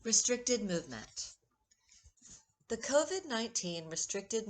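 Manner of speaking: measured poetry recital with deliberate pauses; unhurried, line-by-line verse reading; poem reading. Acted. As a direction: read your own poem aloud, lingering on key words. Poet reads her own poem aloud.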